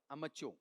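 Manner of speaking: "अमच्योर" as short um-uh-CHO; modelled pronunciation. Shown as a demonstration. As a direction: answer "अमच्योर" with short first vowel. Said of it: "बोलो एमेच्योर या अमच्योर?". ("अमच्योर", छोटे अ से)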